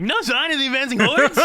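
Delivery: high, loud, overdone British delivery; hammed-up, laughing British accent gone wrong; botched British accent. Shown as a demonstration. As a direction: blurt it out in a wildly overcooked British accent. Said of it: "I hope I don't go out like".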